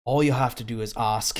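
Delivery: All you have to do is ask, back in the smuggler's put-on accent; the rogue's accent picked up again; smuggler's accent restored. Shown as a demonstration. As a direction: redo the line with the accent back on. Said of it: "that definitely wasn't right".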